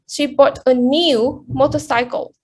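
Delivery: "new" stressed, standing out before "motorcycle". Shown as a demonstration. Presenter contrasting new with old or used, stress on "new". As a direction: lean on "new" to rule out used. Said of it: "She bought a new one".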